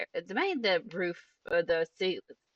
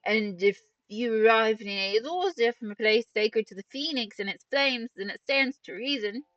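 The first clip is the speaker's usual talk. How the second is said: louder, higher voice-acted deduction; measured, projected dialogue read; thoughtful game character; 4 semitones higher, 4 dB louder than usual. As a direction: reason it out in character. Reads game character's reasoning.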